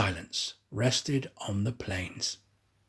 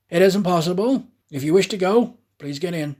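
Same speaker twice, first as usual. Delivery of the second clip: higher, louder firm answer; insistent conductor; 5 semitones higher, 5 dB louder than usual. Acted. Conductor insisting to Aouda, louder and firm. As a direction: shut her down firmly.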